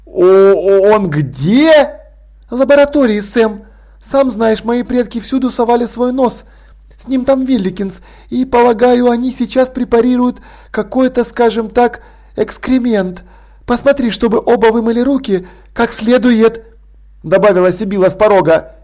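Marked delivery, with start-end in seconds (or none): 0.0-2.0 bewildered. Acted. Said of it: "Изумление в душе Ваймса накапливалось". 2.5-16.6 higher, composed aristocratic lady; a gracious hostess, gently amused; poised lady Sibyl. Acted. Sibyl instructs Vimes.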